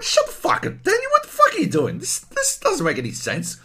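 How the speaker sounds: high, loud, fast mock outrage at Daniel; outraged rant. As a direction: scream at the screen in disbelief. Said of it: "you'd be like".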